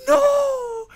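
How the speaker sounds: loud, high disbelieving cry; can't believe it, yelp it out; shocked no. Real, not acted. Shocked friend never played.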